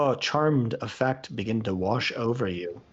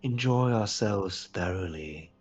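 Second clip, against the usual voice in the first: lightly voiced coaxing queen; a hushed start, an unhurried lure; seductive queen; 4 dB quieter, slower than usual. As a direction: softly invite them closer. Queen tries to charm.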